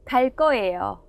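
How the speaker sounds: 갈 거예요 with 거 tensed to 꺼; tensed consonant demo. Shown as a demonstration. Teacher models 갈 거예요 for learners, tensed 꺼. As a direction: say 갈 거예요 as 갈 꺼예요, doubled k. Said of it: "cô giáo phát âm chính xác".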